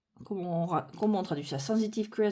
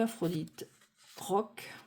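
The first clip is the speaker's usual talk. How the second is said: softer, puzzled murmur of "Aphrodite croque"; quiet musing repeat; 2 semitones lower, 6 dB quieter than usual. Real, not acted. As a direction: turn the name "Aphrodite croque" over to yourself, softly. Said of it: "J'imagine qu'il doit avoir une histoire".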